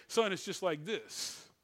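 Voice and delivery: low, soft, slowed fatherly voice; soft and compassionate. Retold or imitated. Aging father counseling his son, soft and compassionate. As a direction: gently settle your son. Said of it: "he's become soft and compassionate".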